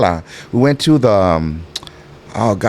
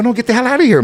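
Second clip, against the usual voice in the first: retold indignant dismissal; 11 semitones higher, faster than usual. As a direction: send them packing, voice jumping up. Retold dismissal of wife from room.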